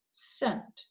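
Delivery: scent whispered; whispered chunk. Shown as a demonstration. Teacher sounding out the last chunk, whispered. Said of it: "look at the last one".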